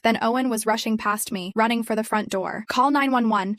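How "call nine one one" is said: shouted. Acted. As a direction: shout it back while running. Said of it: "he shouted over his shoulder".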